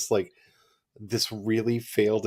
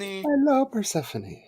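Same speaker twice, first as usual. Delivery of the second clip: slipping Irish accent; 11 semitones higher than usual. Real, not acted. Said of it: "my Irish genetic heritage tries to come out".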